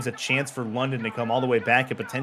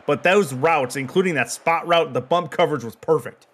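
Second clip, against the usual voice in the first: slightly higher, louder football call; excited play-by-play; 5 semitones higher, 5 dB louder than usual. Real, not acted. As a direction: call the broken-up pass with some excitement.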